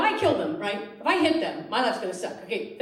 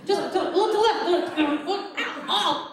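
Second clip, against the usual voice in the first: mock lover directions; 9 semitones higher, slower than usual. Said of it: "That's how I direct my lovers".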